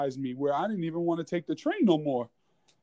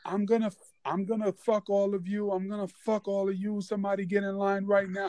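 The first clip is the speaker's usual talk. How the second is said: high, wild mock rant of a naked man; crazed yelling; 5 semitones higher than usual. Retelling the naked man on the train, mock crazed yell. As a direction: throw the line out like a raving stranger. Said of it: "just yelling".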